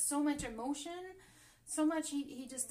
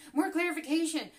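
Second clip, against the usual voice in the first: much louder, higher demand; overexcited; 5 semitones higher, 10 dB louder than usual. Real, not acted. Reader asking cards for more, excitedly loud. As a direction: burst out eagerly. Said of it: "Getting too excited here".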